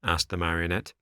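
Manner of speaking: ordinary delivery, nothing marked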